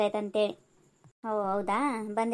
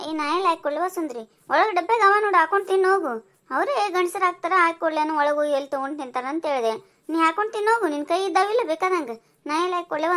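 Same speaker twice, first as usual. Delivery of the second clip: raised, irritated brush-off; scolding refusal; 4 semitones higher, 4 dB louder than usual. Acted. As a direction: tell her off for asking to be served. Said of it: "ಇಷ್ಟಕ್ಕೆ ಬಾಯಿ ಮಾಡ್ಬೇಡ್ರಿ". (ಜೋರಾಗಿ ಗದರಿಸುತ್ತಾ)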